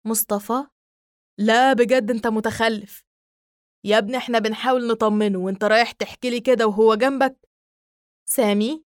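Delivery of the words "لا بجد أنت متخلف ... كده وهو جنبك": exasperated scolding. Acted. Mustafa scolding Sami.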